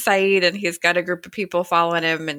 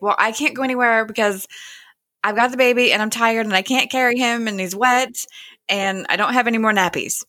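mildly frazzled, higher-pitched complaint; imitated exasperation; 4 semitones higher than usual. Young mother explains why she can't leave, mildly exasperated imitation. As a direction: list the troubles with a touch of fluster.

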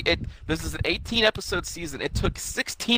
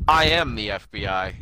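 lower, slow, solemn declaration; slow dramatic Cooper line; 4 semitones lower, 3 dB louder than usual. Retold or imitated. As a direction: announce it like a hero's return.

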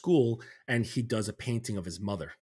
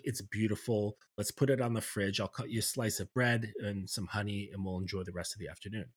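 gentle mother; 3 dB quieter than usual. Retold or imitated. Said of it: "she's like".

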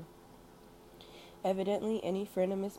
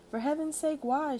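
pitched higher and louder, a startled why; astonished at her fear; surprised; 9 semitones higher, 6 dB louder than usual. A narrator's reading. Hostess surprised by guest's fear.

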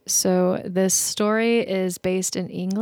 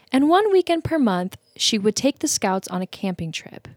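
measured storyteller reading; story narration. A narrator's reading. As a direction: read a campfire tale aloud with lilting emphasis. Reads the story aloud.

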